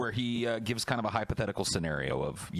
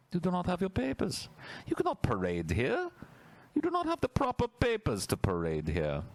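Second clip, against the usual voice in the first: high, clipped authority voice; stern official voice; 11 semitones higher than usual. Pretend. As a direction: bark it like a border guard.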